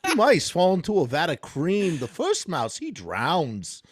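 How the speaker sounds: Christopher Walken impression. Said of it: "Try to do Christopher Walken".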